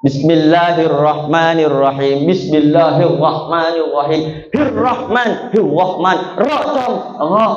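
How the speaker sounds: Bismillahirrahmanirrahim slow with the r mangled; stumbling over the r in Hirrahman; lisping r. Retold or imitated. Student struggling to recite before Kiai Khalil, lisping r. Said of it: "ndak bisa ngomong R".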